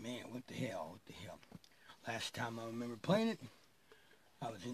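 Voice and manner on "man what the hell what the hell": breathless whispered frustration, fading away; whispered cursing. Retold or imitated. Searching his dark house for the missing guitar, whispered cursing. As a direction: hiss it under your breath, alone in the dark.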